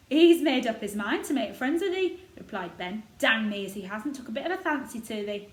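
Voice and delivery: lightly voiced proud old gardener; a touch of Yorkshire, warming to the robin. Gardener boasting of the robin to Mary, lightly voiced old Yorkshireman.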